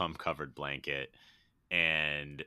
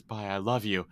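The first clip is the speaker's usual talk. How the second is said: higher, light mock-sweet goodbye; M P H's farewell; 4 semitones higher than usual. Hallucinated self leaving on the unicorn, lightly sung-out farewell. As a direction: call a quick loving goodbye, pitched up. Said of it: "and he goes".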